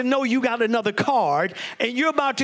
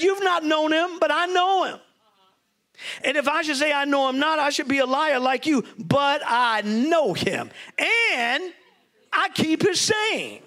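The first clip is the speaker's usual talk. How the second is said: fervent preaching; 3 semitones higher than usual. Acted. Preacher voicing Jesus, rising fervour.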